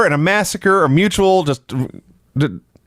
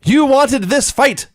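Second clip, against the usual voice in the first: high, slow, drawn-out wrestler yell; hammed-up shout of a wrestler's challenge; mock wrestler scream; 9 semitones higher, 3 dB louder, slower than usual. Host imitating Seth screaming before the fight, mock yell. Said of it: "when Seth begins to scream".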